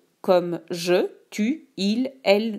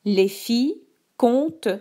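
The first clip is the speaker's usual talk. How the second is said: dictating. Shown as a demonstration. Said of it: "Je te dicte la phrase deux".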